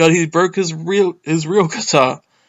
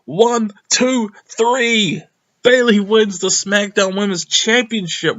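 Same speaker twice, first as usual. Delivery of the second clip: calling the big moment like a fan; excited play-by-play; 6 semitones higher than usual. Real, not acted.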